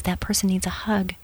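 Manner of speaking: soft whisper, barely voiced; gentle inner voice. The Lord whispering a nudge at church. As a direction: whisper it like a quiet prompting from God. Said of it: "He says".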